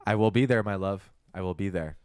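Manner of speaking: anime love line. Shown as a demonstration. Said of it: "For an anime".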